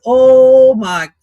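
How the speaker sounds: sudden loud oh my; real shock at the clip; shocked gasp. Real, not acted. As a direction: caught off guard, blurting it out.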